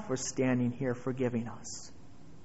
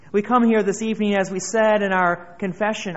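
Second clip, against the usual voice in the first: louder, faster preaching; 3 semitones higher, 6 dB louder than usual. Acted. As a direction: repeat it louder and quicker, building. Repeated opening, building intensity.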